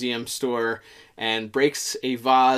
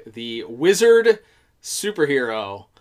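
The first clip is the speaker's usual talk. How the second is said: slow, louder grand announcer title; old-timey hero title; 5 dB louder than usual. Retold or imitated. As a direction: boom it like a vintage hero name. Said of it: "those old-timey names that they gave superheroes".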